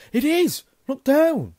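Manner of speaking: very high, loud yell. Acted. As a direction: yell it out in amazement. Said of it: "Ron gave a yell".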